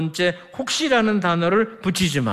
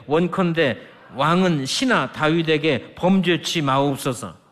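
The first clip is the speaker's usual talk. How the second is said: scripture reading; 4 semitones lower than usual. Shown as a demonstration. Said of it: "이렇게 말합니다".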